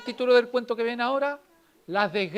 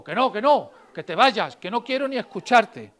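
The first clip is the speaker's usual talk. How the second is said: wolf refusing; 6 dB louder than usual. Acted. Wolf refusing through the door.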